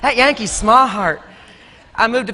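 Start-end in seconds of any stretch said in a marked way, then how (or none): 0.0-1.2 slow, stretched Southern drawl, "smart" in two syllables; Tennessee Southern accent. Retold or imitated. Tennessee locals on the Yankee newcomer, drawn-out Southern accent. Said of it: "get a second syllable in there".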